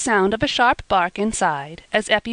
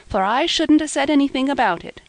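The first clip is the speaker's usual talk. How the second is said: half bashful, half roguish; 7 semitones higher than usual. A narrator's reading. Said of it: "half bashfully, half roguishly".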